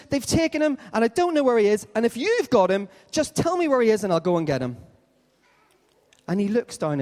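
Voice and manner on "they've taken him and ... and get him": high, urgent plea; pleading Mary. Acted. Mary to the supposed gardener, urgent high-pitched pleading. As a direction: plead up high, falling away at the end.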